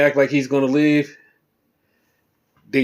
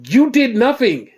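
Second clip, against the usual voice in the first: mock shout; 8 semitones higher, 4 dB louder than usual. Cena's heated promo, retold.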